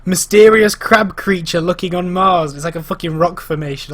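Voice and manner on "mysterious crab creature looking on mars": slow, loud tabloid headline; mock headline read. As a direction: announce it like a sensational headline. Reads out mock sensational headlines.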